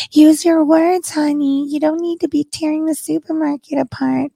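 high singsong mockery of a gentle mother; coddling mom. Host mocks a mom at her child's level, high coddling voice. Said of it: "come down to their level".

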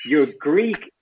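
high, slow, incredulous question; a baffled stranger's double take; mock surprise. Nephew's aunt retells a stranger's surprised question, slow and high. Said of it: "she looks at me and she goes".

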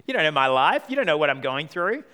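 a hint of a stroppy teenager; mock teenager. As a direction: imitate a defensive eighteen-year-old talking back to Mum. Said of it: "classic eighteen-year-old response".

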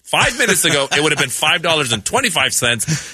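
lightly voiced stern elder scolding; a hint of a preachy father figure; mock lecture. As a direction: wag the finger at the young man. Lecturing beggar like a parent.

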